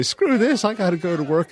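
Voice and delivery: high-pitched mock exasperation; fed-up driver. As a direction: imitate a driver who has had enough.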